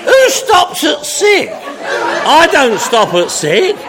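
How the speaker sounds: laughing slowly through the words; can barely get it out for laughing. Real, not acted. To the AA crowd about drinking past sick, laughing. Laughing at own joke to audience.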